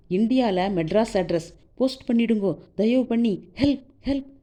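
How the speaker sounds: lightly acted plea to a stranger; urgent pleading. A narrator's reading. Desperate girl begs stranger for help. (லேசான அவசரக் கெஞ்சல்)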